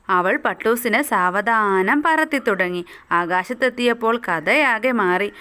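storybook reading. A narrator's reading. Teacher reading a kite story to schoolchildren, lively storytelling. Reads story text aloud.

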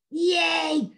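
high excited yay; cheering kids. Acted. Children cheering at the camping idea.

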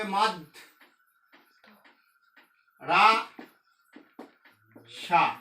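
মাদ্রাসা said as মাদ, রা, সা; মাদ্রাসা spoken syllable by syllable; split into syllables. Shown as a demonstration. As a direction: pause between each syllable of মাদ্রাসা. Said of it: "মাদ্রাসা ভাঙলে কি হবে".

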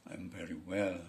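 understated mock statesman's reply; Donald Trump. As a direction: answer softly as the person just greeted. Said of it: "sama Donald Trump".

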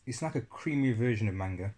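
speaking between spoonfuls; talking while eating. Real, not acted. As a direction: mouth partly full. Seen 1: Spoon held at mouth behind yogurt pot throughout the words.

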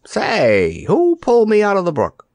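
a hint of a grumpy dummy, high; dummy demanding answers; lightly voiced dummy. A narrator's reading.

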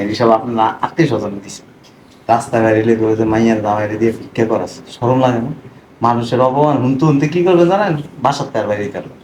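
loud, indignant scolding; angry reproach. Acted. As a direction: raise the voice and shame them. Angry confrontation with father-in-law over begging. (রাগে চড়া গলায় ভর্ৎসনা)

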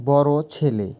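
বড় ছেলে with বড় hit firmly; word stress demo. Shown as a demonstration. Teacher showing word stress on বড় ছেলে, pressing বড়. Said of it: "এই দুই অক্ষরের ওপরে জোর বেশি পড়ে".

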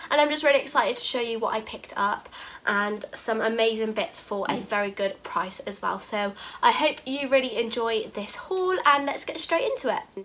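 stuffy, bunged-up voice from a cold; blocked nose. Real, not acted. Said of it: "if I sound a bit bunged up".

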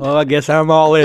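lightly voiced poker player declaring a bet; a hint of John Wayne at the card table; Bill Gurley impersonation. Host mimics an investor at the poker table, light impersonation. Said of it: "When Bill Gurley says".

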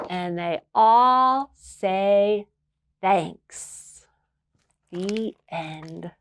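gentle storybook read-aloud; reading to children. A narrator's reading. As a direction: read it like bedtime story time. Reads a picture book aloud.

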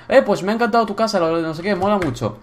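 brisk, lifted mock praise from a viewer; imagined viewer comment. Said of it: "Podéis dejarme decir".

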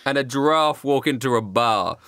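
lightly voiced cowboy comic; stand-up comic. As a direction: tell the joke like a stand-up. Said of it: "cowboy voice doing stand-up comedy".

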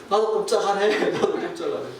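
joking back through a laugh; laughing reply. Retold or imitated. Preacher answering his coworker at the job site, laughing. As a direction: toss the line back with a chuckle. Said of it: "그래서 저도".

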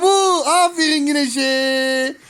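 slow, drawn-out cheer. Real, not acted. Parent cheers toddler for finding the blue ball, drawn-out praise. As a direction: stretch each word in praise.

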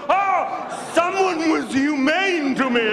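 high, slow, hurt fish voice; pained fish. Acted. Released fish tells other fish, high and slow. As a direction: whimper it like an injured fish.

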